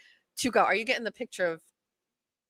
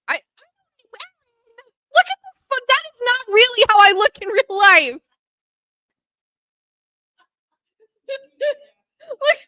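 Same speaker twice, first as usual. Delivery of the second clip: much higher, slow squealing laugh-cry; 14 semitones higher, 8 dB louder, slower than usual. Real, not acted. Reacting to her photo on the driver's ad, squealing laugh. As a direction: squeal in horrified amusement. Seeing unflattering photo of herself.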